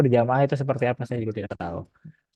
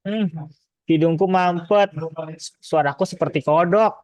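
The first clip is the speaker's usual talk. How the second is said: blocked nose voice; 4 semitones higher than usual. Retold or imitated. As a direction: imitate a congested cold-medicine ad. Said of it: "kayak iklan gini".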